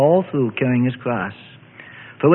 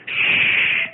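unvoiced shush; John quieting the grieving mother; hushing. A narrator's reading. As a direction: hush her gently. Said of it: "John said".

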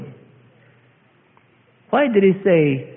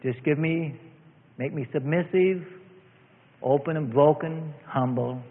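soft, meek prayer; quiet submissive plea to the Lord; humble quiet prayer; 6 dB quieter than usual. Retold or imitated. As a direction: pray it softly, humbly. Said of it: "you come to church and you say".

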